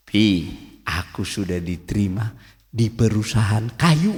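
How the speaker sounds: retold smiling answer, low and unhurried; smiling reply. Nephew breaking news to his angry uncle, calm and smiling. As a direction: answer gently with a smile, pausing after the address. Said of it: "Saya senyum, saya bilang".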